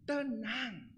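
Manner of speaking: shepherd arriving to calm the sheep, softly; soft calming word. Acted. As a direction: hush them gently. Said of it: "gembalanya datang".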